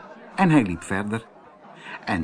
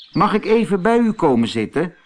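polite; 6 semitones higher, 4 dB louder, faster than usual. Acted. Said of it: "vroeg Antonio beleefd".

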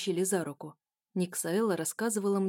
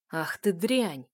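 крик; 4 dB louder, much slower than usual. Acted. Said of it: "закричал второй".

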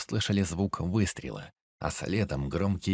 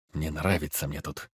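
grumbling; 4 semitones lower than usual. Acted. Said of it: "буркнул опер".

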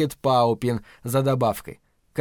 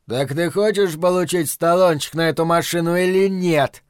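angry hiss; 4 semitones higher, 4 dB louder than usual. Acted. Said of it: "злобно прошипел Рокки".

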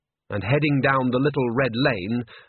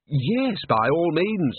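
eager agreement; 6 semitones higher, much slower than usual. A narrator's reading. Overheated man agrees eagerly.

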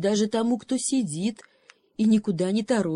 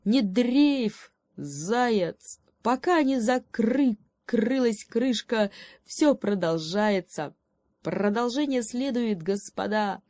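a cocky raven cheering up the hare; 3 semitones higher than usual. Acted. Raven voiced, croaking stutter.

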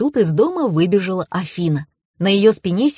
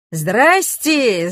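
higher-pitched mock yell of greeting; mild hailing cry, pitched up; 4 semitones higher than usual. A narrator's reading. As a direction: call out hello, only half raised. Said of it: "заорал парень".

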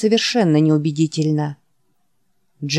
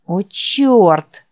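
groaning; 2 semitones higher, 3 dB louder than usual. Acted. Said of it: "простонал Джек".

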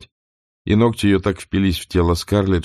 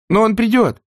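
desperate plea; 4 dB louder than usual. Acted. Scarlett pleading.

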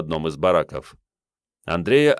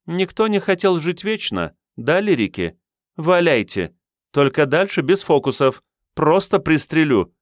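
mocking threat; 9 semitones higher, 3 dB louder than usual. A narrator's reading. Officer mocks then threatens agents.

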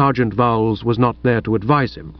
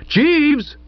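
high call with a falling end; shout. A narrator's reading. Narrator joins the others calling the butler, shouting. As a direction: shout out for him. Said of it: "I shouted".

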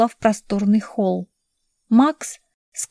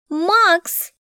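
shout; 9 semitones higher than usual. A narrator's reading. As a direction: shout his name, high. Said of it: "закричала она".

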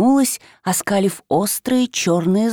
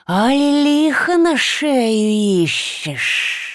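hissing creature taunt; 5 semitones higher, much slower than usual. Acted. Likho mocks Vasilisa.

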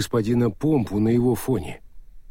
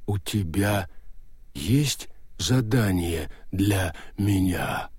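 slow stone monotone; 3 semitones lower, 3 dB quieter, slower than usual. Acted. Golem ghost asks.

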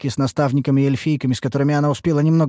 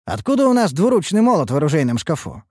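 surprised scolding; 6 semitones higher than usual. Acted. Лейтарис возмущённо спрашивает.

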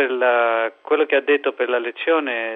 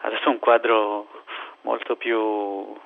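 Greek accent. Real, not acted. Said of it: "scusate il mio italiano".

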